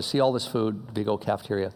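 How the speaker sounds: low, soft, kindly offer; quiet, low-voiced compassion; compassionate rich man. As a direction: speak gently and low, as if to someone down on his luck. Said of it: "had real compassion for this guy".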